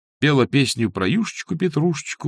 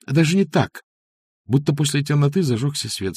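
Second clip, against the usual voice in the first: usual speaking voice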